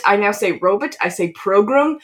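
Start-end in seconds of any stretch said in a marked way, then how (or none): 0.5-0.9 "robot" said the movie pharaoh's way; character's pronunciation. Shown as a demonstration. Host showing a habit picked up from the film, quirky "robot". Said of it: "because of the way he says". 1.3-2.0 "program" said the movie pharaoh's way; character's pronunciation. Shown as a demonstration. Host showing a habit picked up from the film, quirky "program". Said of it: "because of the way he says".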